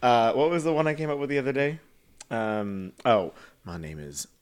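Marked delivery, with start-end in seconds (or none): 3.6-4.3 low, slow drag introduction; slow, low put-on queen voice; drag persona voice. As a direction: drawl the stage name, pitched down. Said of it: "I feel like with that voice".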